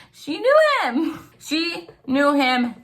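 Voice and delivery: high laughing disbelief. Real, not acted. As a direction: laugh it out at the coincidence.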